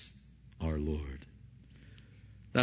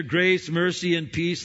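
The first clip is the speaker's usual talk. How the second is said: Grace mercy and peace rung out higher and louder; proclaimed greeting; 6 semitones higher, 5 dB louder than usual. Acted. Preacher quoting Paul's greeting to the church, higher and louder.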